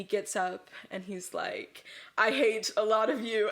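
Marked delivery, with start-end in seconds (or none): 2.2-3.5 mildly rude speech, a bit louder. Retold or imitated. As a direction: retell a rude public announcement. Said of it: "he's, like, really rude".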